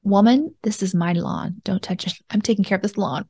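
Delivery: mock macho husband. Husband to wife, claiming the lawn, playfully possessive. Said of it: "he'd be like".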